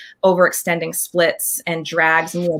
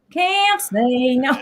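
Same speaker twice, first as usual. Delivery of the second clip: Can't say no, stretched very slowly and higher; slow emphatic repeat; 7 semitones higher, much slower than usual. Real, not acted. Admitting to the host she can't refuse, slowly. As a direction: drag out Can't say no, each word weighed.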